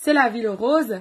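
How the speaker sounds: accent from Toulouse. A speaker doing her makeup tries an accent she says she can't do, fake Toulouse accent. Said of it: "Accent toulousain".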